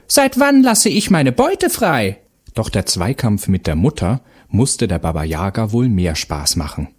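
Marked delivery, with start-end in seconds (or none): 0.1-2.2 high, loud, slow mocking witch voice; grumbling witch. A narrator's reading. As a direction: sneer it out like a hag. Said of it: "moserte die Hexe".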